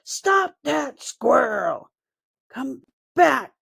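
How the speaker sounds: a lightly voiced goblin roaring. A narrator's reading. Goblin roars after the fleeing squirrel, hammed-up. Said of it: "the other roared".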